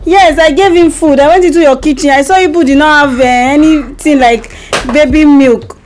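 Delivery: earnest, puzzled explaining; amnesiac confusion. Pretend. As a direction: innocently explain what you found. Wife fakes amnesia prank call.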